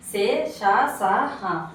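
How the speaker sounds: సే, ష, స, హ each with air blown out; blown-out sibilants. Shown as a demonstration. Teacher listing breath-made letters, airy drawn-out సే, ష, స, హ. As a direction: push breath out on సే, ష, స, హ, one by one. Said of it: "గాలిని బయటకు ఊదుతూ పలికే".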